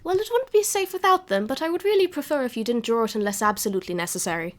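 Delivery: lightly voiced proper granny, a bit haughty; old cat grandma. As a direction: tease them with her name. DM voicing Nan.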